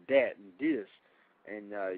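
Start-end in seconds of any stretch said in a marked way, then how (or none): 0.1-0.4 mimicking "dat" with a hard D; mock Ebonics. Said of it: "He starts saying words like". 0.6-0.9 mimicking "dis" with a hard D; mock Ebonics. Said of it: "He starts saying words like".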